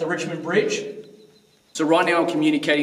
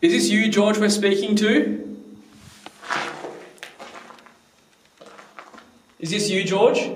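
higher, careful questioning; addressing a spirit; 5 semitones higher than usual. Real, not acted. Investigator asking whether the spirit is George, higher questioning. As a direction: gently put the question to an unseen listener.

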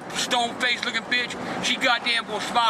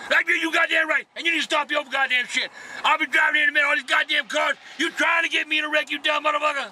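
raised, heated cursing at the passenger; angry ranting; 4 semitones higher than usual. Real, not acted. Upset driver cursing out his passenger over traffic, heated. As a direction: vent the road rage at him. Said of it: "Stop being so upset".

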